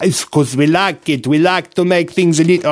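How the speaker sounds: a light mock Italian accent. Shown as a demonstration. Host slips into a light mock Italian accent by mistake. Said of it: "oh, I don't know why I'm doing Italian".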